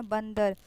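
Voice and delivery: बंदर with a clearly sounded n; nasal resonance. Shown as a demonstration. Teacher showing where the n sounds, nasal बंदर. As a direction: let the n in बंदर ring through the nose. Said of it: "ना का आवाज़ निकला ना".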